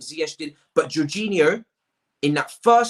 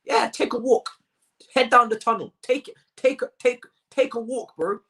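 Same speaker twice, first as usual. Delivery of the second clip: imitating fans; 4 semitones higher than usual. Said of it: "you'd be saying".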